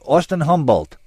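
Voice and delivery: a high, anxious little man; timid suspect answering police; Dortmunder's voice. A narrator's reading.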